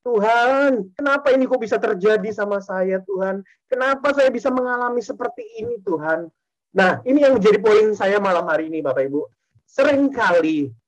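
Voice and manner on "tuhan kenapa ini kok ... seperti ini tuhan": tearful plea. Retold or imitated. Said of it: "Saya nangis sama Tuhan".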